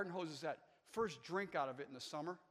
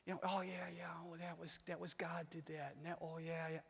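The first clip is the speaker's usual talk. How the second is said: mock false humility; 3 semitones higher, 7 dB quieter than usual. Preacher mocking falsely humble churchgoers, airy and coy. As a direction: mimic a proud man playing humble. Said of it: "they wanna feel pumped up and say".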